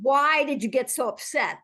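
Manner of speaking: slightly pushy question; a why that sounds like blame; judging why. Shown as a demonstration. Coach showing the wrong way to ask, judging. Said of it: "that also feels like judgment".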